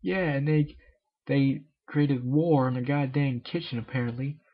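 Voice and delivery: lightly squeaked answer; squeaky reply. Acted. Pinkie answers Miss Cake in a light squeak. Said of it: "Pinkie replied in a squeak".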